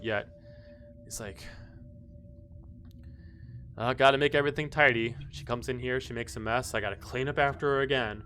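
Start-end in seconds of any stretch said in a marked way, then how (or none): 3.8-8.2 enraged butler. Acted. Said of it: "kind of like an enraged butler".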